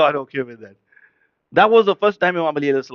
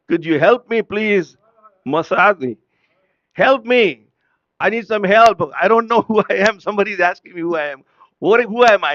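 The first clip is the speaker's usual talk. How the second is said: raised, louder plea; pleading for help; 4 semitones higher, 5 dB louder than usual. Acted. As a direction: beg for help, lightly acted. Acted plea of confused Jibreel.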